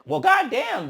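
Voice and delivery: high shocked goddamn; shocked exclaim. Retold or imitated. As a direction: gasp it out in disbelief. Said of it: "I was like".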